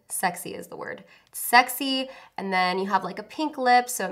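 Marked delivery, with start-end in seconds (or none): 0.1-1.0 whispering. Pretend. Whispered aside on sexy look. 1.3-2.1 loud, high and punchy; emphatic. Shown as a demonstration.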